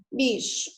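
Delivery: "bicho" drawn out, CH as one sh sound; slow pronunciation demo. Shown as a demonstration. Teacher showing a digraph to students, slow demonstration. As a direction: say "bicho" slowly with a single sh.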